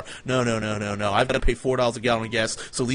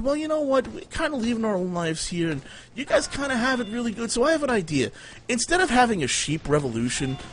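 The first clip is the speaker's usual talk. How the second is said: higher, pitched-up persuading voice; coaxing; 3 semitones higher than usual. Retold or imitated. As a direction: talk the sheep into a union. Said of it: "And I said".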